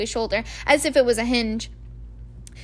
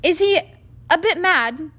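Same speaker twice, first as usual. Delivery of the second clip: put-on higher, louder unsure boy; uncertain; 6 semitones higher, 6 dB louder than usual. A narrator's reading. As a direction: ask hesitantly. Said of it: "he asked Percy uncertainly".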